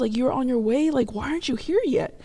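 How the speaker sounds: mom's impatient questioning. Retold or imitated. Mom on the phone asking where daughter is, impatient. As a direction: press for an answer, imitating mom.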